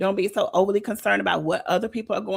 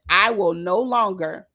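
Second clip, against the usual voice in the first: reading aloud; slower than usual. Shown as a demonstration. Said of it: "something that I wrote down this morning".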